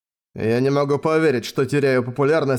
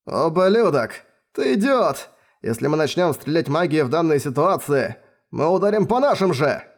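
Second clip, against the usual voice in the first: wounded Klaus yelling at Baius, furious outburst; angry outburst; 2 semitones higher than usual. Acted. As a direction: snap back in outrage.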